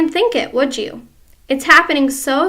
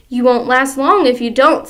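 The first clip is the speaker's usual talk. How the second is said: grisly grin; 5 dB louder than usual. Acted. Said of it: "grisly grin".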